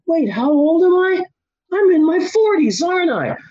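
high-pitched, rising alarm; alarmed confusion. Retold or imitated. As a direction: question yourself in dawning panic. Stoned confusion about own age.

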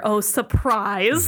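drawn-out sarcastic surprise; stretched-out, self-deprecating "surprise"; mock surprise. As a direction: feign surprise at your own expense. Self-mocking aside about never running.

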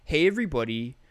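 Big Joel impression. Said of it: "I do his voice really well".

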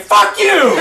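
high, loud cursing; acted furious outburst; angry yell. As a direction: hurl it out in a rage. Drunk pianist raging at bartender.

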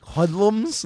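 high, loud scandalized cry; mock outrage. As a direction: clutch your pearls. Mocking teens smoking at a party.

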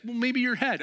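high, loud eager asking; eager question. Retold or imitated. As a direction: ask eagerly.

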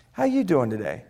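soft, casual "How you doing today"; plain low-key greeting. Shown as a demonstration. Coach shows one phrase many ways, low-key. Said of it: "I just said the same phrase five different ways".

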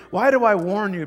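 rising, loud preacher call and answer; preaching build. Acted. Pastor preaching his love to the church, loud and soaring. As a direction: hammer each question home with a soaring answer.

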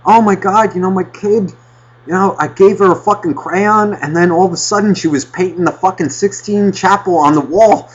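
high, frantic mock parent voice; a parent rattling off chaos. Harried parent on a call to a friend, high mock frenzy. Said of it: "it's just like".

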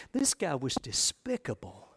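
whispered contempt. Real, not acted. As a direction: hiss it under your breath. Aside on Tetzel's character.

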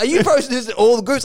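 mock accusing question; angry commenter. Commenter challenging posts in all groups, mock angry. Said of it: "he was angry".

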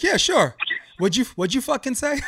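loud, high-pitched Brooklyn comeback; Brooklynese. Acted. Showing friends how Brooklynese asks for a repeat, hammed-up Brooklyn accent. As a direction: fire back in hammed-up Brooklynese. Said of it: "how you say in Brooklynese".

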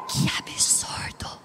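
a sudden "Ei" then a whispered "que absurdo"; very softly. Shown as a demonstration. Preacher shows wives how to object gently, in a whisper. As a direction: hush it so no one takes offence. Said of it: "Falar bem baixinho pra ninguém se ofender".

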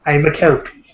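light mock Irish lilt; a hint of a Gaelic sprite; vaguely Gaelic voice. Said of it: "This isn't a leprechaun voice".

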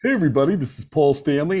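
lightly voiced rock-star impression; a singer. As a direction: greet the crowd with a hint of put-on voice. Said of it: "do the impression".

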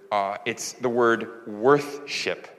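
muffled behind a mask; through a face mask. Real, not acted. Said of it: "That's hard to say through a mask".

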